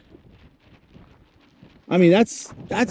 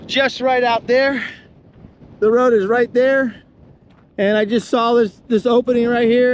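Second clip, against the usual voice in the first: shouting over wind; 3 semitones higher than usual. Real, not acted. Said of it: "I'm kinda talking a little loud 'cause this".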